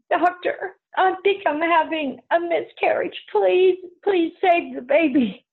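acted-out desperate appeal to a doctor; frightened pleading. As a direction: plead urgently, drawing out the final plea. Retold plea to doctor during miscarriage scare.

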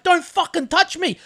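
retold angry protest. Car thief to the man who grabbed him, indignant mock protest. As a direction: imitate the kid pushing back. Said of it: "and I grabbed him. He's like".

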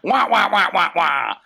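trombone-like wah wah babble; muffled wah wah talk. Pretend. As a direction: say wah wah like a muted horn. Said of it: "You're gonna be the voice?".

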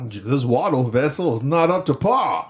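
put-on Southern Georgian accent. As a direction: copy a genteel Georgian accent. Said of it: "not the best Georgian accent I can do".

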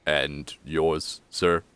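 a hint of a deferential butler; disheveled butler. Butler turning to the second guest, lightly deferential. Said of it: "and he goes".

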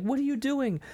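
hammed-up scolding in a high register; mock yelling. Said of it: "yelling at me like".

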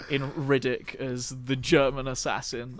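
hammed-up whining failed actor in a put-on accent. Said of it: "another failed actor says".

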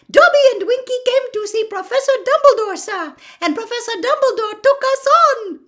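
high, very loud squeaky elf voice; an elf triumphantly finishing his tale; excited house elf. A narrator's reading. Dobby shouting his story to Harry, high and excited.

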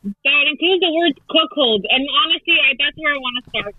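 muffled, hand over mouth. Real, not acted. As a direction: talk through your hand. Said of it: "like, you put your hand over your mouth".

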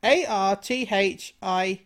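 slow, deliberate letter-by-letter spelling; spelled out slowly. Shown as a demonstration. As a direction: spell each letter out carefully. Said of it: "How do you spell that".

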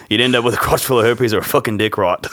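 put-on Aussie voice, wobbling; Australian movie quote, accent fading; badly held Australian accent; slipping Australian accent. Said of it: "I'm losing my Australian accent".

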